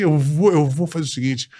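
ordinary talk, nothing marked

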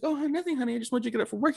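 fake sweet. Mother waking her son, a lightly voiced fake sweetness. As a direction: sugar over the menace. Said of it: "She's like".

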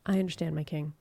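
soft, meek acceptance; a hint of the queen bowing to the dying king; quiet submission. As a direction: murmur it like a dutiful wife. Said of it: "she just goes".

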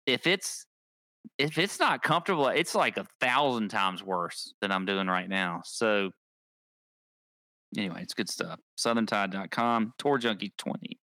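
out of breath; breathless after shirt demo; gasping between phrases. Real, not acted. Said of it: "I'm out of breath".

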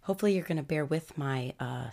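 hoarse from a cold; sick voice. Real, not acted. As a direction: talk through a sore, sick throat. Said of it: "my sick voice".

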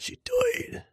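squeaky high Irish wail; Colin Farrell impression. Colin Farrell impression repeating she died high. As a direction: jump way up into a comic cry. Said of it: "What about Colin Farrell?".

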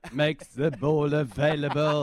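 loud, excited play-by-play call; mock commentary call. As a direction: call the name like a match commentator.

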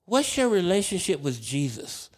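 a hint of high singsong imitation; imitated male nurse. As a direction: put on a high, prying nurse voice. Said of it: "He's like".

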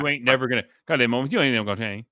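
fast Southern words all run together; fast mumbled Southern accent. Retold or imitated. Imitating Roy Jones Junior's run-together Southern speech for co-host. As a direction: rush it like one long word, Southern. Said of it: "It's like one, it's all connected".

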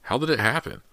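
high, urgent asking; anxious question. A narrator's reading. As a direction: ask it urgently. Worried question in hospital.

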